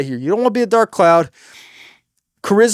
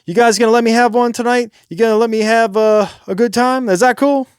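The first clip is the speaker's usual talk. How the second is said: pitched-up request to the crowd; asking permission; 4 semitones higher, 4 dB louder than usual. Shown as a demonstration. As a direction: ask the audience to indulge you. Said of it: "don't ask for permission".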